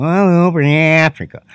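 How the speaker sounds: exaggerated white-lady mimicry; white women impression. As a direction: stretch it out like a caricatured white woman. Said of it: "That's how they sound to me".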